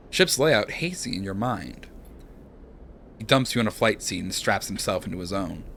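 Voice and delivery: calm second-person narration; story narration. A narrator's reading. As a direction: read the scene like a storyteller.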